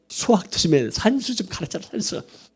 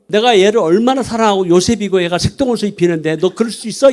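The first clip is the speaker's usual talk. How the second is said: louder, insistent telling-off of a son; retold exasperated dad, pitched up; father's scolding; 3 semitones higher, 4 dB louder than usual. Father scolding his elder son.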